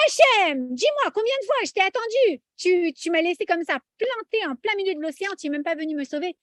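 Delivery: a hurt, indignant plea; indignant reproach. Acted.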